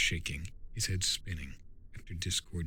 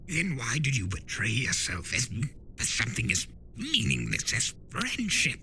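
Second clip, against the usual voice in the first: lightly voiced trickster, a bit higher and playful; Discord, sly spirit of chaos; 4 semitones higher than usual. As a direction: tease him like a know-it-all chaos spirit. Discord lectures Turek.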